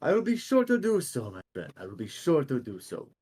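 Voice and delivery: declaimed, courtly assurance; Demos obliging. Acted. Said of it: "And he goes".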